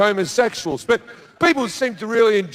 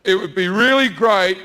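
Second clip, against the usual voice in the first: God voice. Acted. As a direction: play God fishing for praise. Comedian voicing God in bit.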